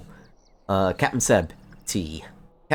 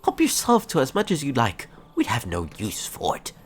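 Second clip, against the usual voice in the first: put-on gruff old NPC; 7 semitones higher than usual. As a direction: bark it like a crusty elder. Voices NPC again.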